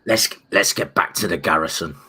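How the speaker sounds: low Brummie impression from a gangster drama; Peaky Blinders Brummie accent. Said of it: "some of my Peaky Blinders".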